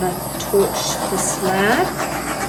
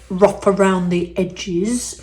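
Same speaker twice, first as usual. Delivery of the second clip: put-on Cockney accent; 4 dB louder than usual. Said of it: "that's my attempt at a Cockney accent".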